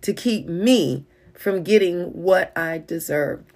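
fed up. Retold or imitated. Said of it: "fed up".

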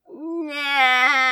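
high, long insolent drawl; insolent drawn-out nah. A narrator's reading. Crow refuses the lords, long insolent drawl. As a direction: stretch it out to mock them. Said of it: "drawing out the word as long and insolently".

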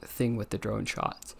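slow, drowsy, mid-yawn. Real, not acted. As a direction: speak through a yawn. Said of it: "I don't know why I'm yawning right now".

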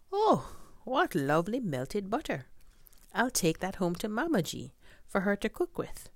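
a father thrilled at his find; delighted father. Acted. Father finds butter.

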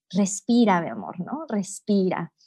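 put-on softly calming a tantruming child; soothing a child. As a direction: hush him gently into breathing. Mamá calma al hijo en berrinche. (suave y tranquilizadora, calmando al niño)

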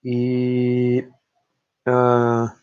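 slow, ominous scene setting; game master narration. Acted. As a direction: draw them into a creepy place slowly. GM sets a creepy scene.

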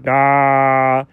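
low, drawn-out duh; mouth-opening duh. Pretend. Dog showing how his mouth opens, long dopey duh. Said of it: "just me opening my mouth".

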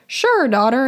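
lightly imitated Middle Eastern accent; a hint of Dad's Middle Eastern accent. Dad answering his daughter's call, light Middle Eastern accent. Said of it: "in his Middle Eastern accent".

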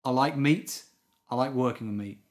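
light Scottish accent; lightly Scottish, like a butcher. Shown as a demonstration. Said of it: "Now say it in a Scottish accent".

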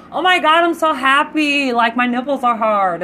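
over-the-top happy quote; overjoyed squeal. Retold or imitated. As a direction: squeal with delight over rain. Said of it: "And I'm like".

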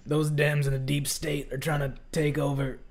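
mock conspiracy radio rant; hammed-up paranoid host ranting; Alex Jones impression. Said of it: "a really bad Alex Jones impersonation".

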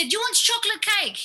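a hint of a motherly tea lady calling darling; imitating the tea lady. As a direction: chirp it like a cheery tea lady. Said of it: "She said".

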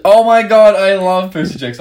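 high, loud fangirl squeal; mock gushing excitement. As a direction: imitate an over-keen girl. Imitating the girl's eager reply.

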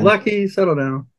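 high coaxing pet voice; talking to a pet. Real, not acted. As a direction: soothe the bird gently. Owner hushing his noisy pet bird.

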